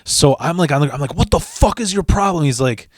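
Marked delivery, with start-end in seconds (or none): 1.1-2.4 high-pitched retold outrage; indignant retort. Acted confrontation after being kicked.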